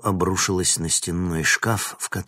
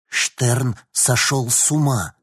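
exhaled; 5 semitones higher, 5 dB louder, slower than usual. A narrator's reading. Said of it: "выдохнул Винник".

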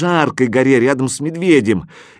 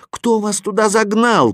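calling up; 10 semitones higher than usual. A narrator's reading. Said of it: "крикнул я им снизу".

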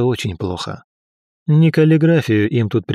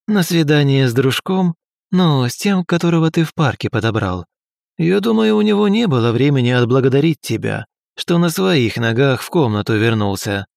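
sneering bully; 3 semitones higher than usual. Acted. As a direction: needle him with a sneer. Bully keeps taunting the hero.

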